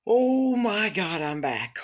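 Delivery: slow, high, loud wail; anguished wail. Real, not acted. Streamer falling back to the start, slow loud wail. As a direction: wail as all progress is lost.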